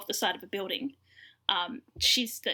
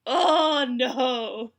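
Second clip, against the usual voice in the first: mock wail; 4 semitones higher, 8 dB louder than usual. Hen reacting to Lucy reveal.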